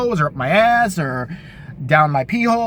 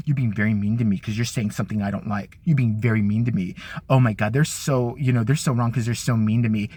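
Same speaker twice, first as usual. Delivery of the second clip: whiny Trump impression; 10 semitones lower than usual. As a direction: whimper it like a sulking child. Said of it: "You sound like a pussy".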